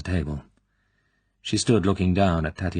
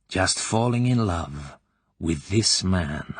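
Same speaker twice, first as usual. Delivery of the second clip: insinuating colonel. Acted. Klebb probing the girl's private life, slyly. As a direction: lean in and savour each question.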